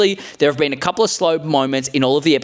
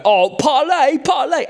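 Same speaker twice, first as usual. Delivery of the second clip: pirate parlay; 10 semitones higher, slower than usual. Retold or imitated. Pirate begging for parlay, high and hammy. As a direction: ham it up like a movie pirate. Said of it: "very much like Pirates of the Caribbean".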